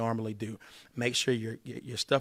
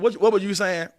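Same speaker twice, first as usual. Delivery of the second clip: raised voice; 8 semitones higher, 9 dB louder than usual. Acted. Back to the client, still keyed up.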